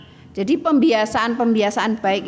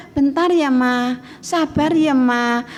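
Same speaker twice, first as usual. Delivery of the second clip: mock child stalling, raised then dropping; putting mom off; 4 semitones higher, slower than usual. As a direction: imitate a phone-absorbed kid fobbing mom off. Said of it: "dipanggil aja". (menunda ibu, meniru anak asyik main HP)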